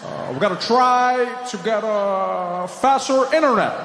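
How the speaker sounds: stop-start, long hesitations; Obama impression. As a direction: drag it out with long ums like Obama. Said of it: "his voice was buffering".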